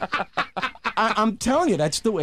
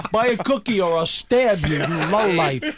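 slow mock threat, laughing; a Girl Scout strong-arming a sale; hammed-up Brooklyn menace; tough brownie scout; 4 semitones higher, slower than usual. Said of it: "I was the brownies".

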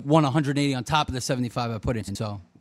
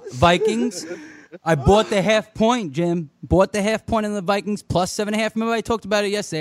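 high, loud, excited bragging; 5 semitones higher, 4 dB louder than usual. Real, not acted. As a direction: brag about the win, all fired up. Excited brag about winning bet.

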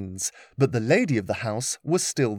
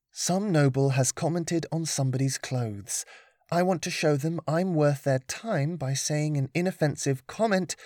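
put-on young girl voice; 3 semitones higher than usual. Lillian reasons aloud.

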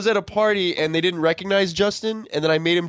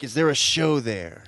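Doctor Phil voice; 4 semitones lower, 3 dB quieter, slower than usual. Retold or imitated. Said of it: "that Doctor Phil look".

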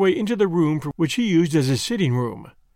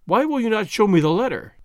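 demanding cry; 4 semitones higher than usual. Acted. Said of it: "she cried".

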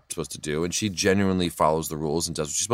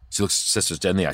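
usual speaking voice

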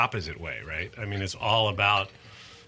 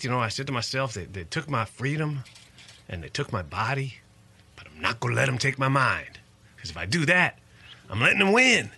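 higher-pitched Virginia impression; Keith Allen Harward's Virginia accent; 4 semitones higher than usual. Exoneree telling how he kept his mind, imitated Virginia accent. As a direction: imitate a Virginia man, rising at the end. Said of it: "I can do his accent pretty well".

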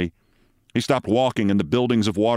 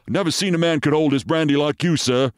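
higher-pitched, admiring sergeant; British sergeant; 6 semitones higher than usual. Acted. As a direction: praise your officer as a loyal sergeant. Sergeant admires his captain.

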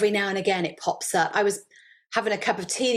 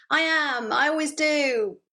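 higher, shouted go away; defiant retort; 8 semitones higher than usual. Retold or imitated. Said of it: "bopped it on the head like whack-a-mole".

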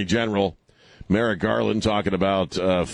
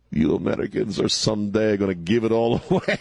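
lightly imitated Russian accent, breaking into laughter; mock Russian accent. Liquor store owner warning Americans, mock Russian accent. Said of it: "they would tell me all kinds of stuff".

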